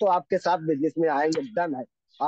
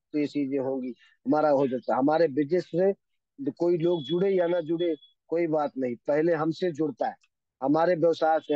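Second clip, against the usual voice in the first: normal talking voice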